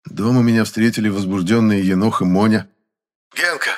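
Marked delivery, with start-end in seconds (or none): 3.4-3.7 higher eager call; excited call. A narrator's reading. The kids greet Genka, excited. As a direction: shout his name from the doorway. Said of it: "с порога закричали они".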